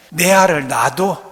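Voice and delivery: loud, lightly put-on Gyeongsang accent; Gyeongsang dialect. Shown as a demonstration. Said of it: "제가 경상도 표현식으로". (경상도 사투리 흉내로)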